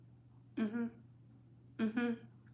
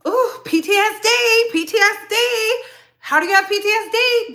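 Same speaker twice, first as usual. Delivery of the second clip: high, louder disbelief; worked-up disbelief, higher and louder; exasperated; 10 semitones higher, 4 dB louder than usual. Real, not acted. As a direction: throw up your hands at P T S D. Exasperated rant about the case.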